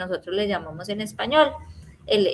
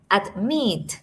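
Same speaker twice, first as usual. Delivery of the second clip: "admit" with the force on MIT; "admit" as ad-MIT, the end falling; stress on second syllable. Shown as a demonstration. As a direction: lean on the last syllable of "admit". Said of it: "sílaba que tiene el mayor stress".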